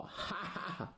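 soft, gloating storyteller's laugh; villain's hearty laugh. Acted. Villain monk gloats at the captured hero, hearty laugh. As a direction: let out a smug ha-ha-ha. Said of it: "惠宾哈哈大笑".

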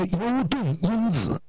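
优盾因子 spelled out slowly, each syllable drawn apart; slow repeat. Retold or imitated. Supplier repeating the name after being asked what, slowly. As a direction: repeat 优盾因子 slowly and clearly for someone who missed it. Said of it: "啥？".

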